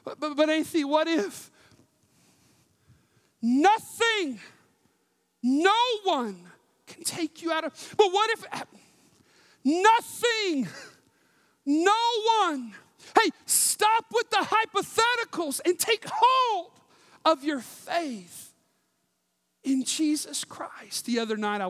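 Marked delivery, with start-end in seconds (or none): 0.0-12.7 mock objector. Mimics a doubting listener's objections. 13.2-17.4 high exasperated rebuke. Acted. Cuts off the objector.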